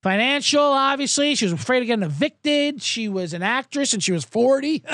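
mock doctor on the witness stand explaining it away; breezy doctor. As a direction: toss it off lightly like it's obvious. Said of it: "He's like".

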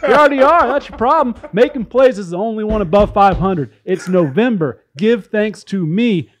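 mock tout's sales pitch; lightly put-on infomercial huckster; gambling ad read. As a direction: sell betting picks like a hammy pitchman. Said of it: "This is a gambling ad".

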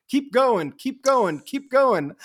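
high, loud, repeated urging; imitated urging. Imitating president urging speaker on.

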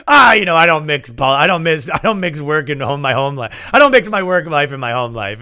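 a hint of a flustered husband repeating himself; mildly flustered, talking round in circles; sheepish excuse. Black Panther leader excusing his Klan wife, lightly flustered.

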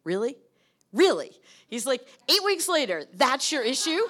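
mock amazement at such a small issue; incredulous. Mentor can't believe summer freedom is the issue, loud disbelief.

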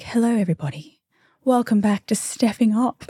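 lightly put-on smooth podcast host voice; a hint of a fake radio-host voice; mock podcast voice. Shown as a demonstration. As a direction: try out a polished show voice as a joke. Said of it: "they do this really nice voice for podcasts".

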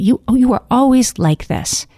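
put-on sulky teenage daughter, a bit overdone; bratty teenager. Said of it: "how well I'm playing the part of that teenager".

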